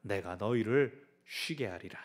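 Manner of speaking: solemn verse reading. Acted. Scripture read in slow preaching.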